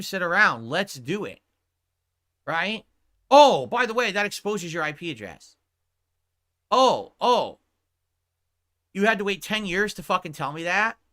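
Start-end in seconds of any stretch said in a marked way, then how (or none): 3.3-5.6 mock sudden reminder. Mocking the late warning. 6.7-7.6 higher, louder "oh, oh" of dawning disbelief; stunned realization. Real, not acted. Reacting to the bad news.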